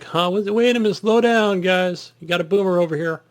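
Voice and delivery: lightly voiced confused old man; a hint of a flustered boomer. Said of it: "old man like me".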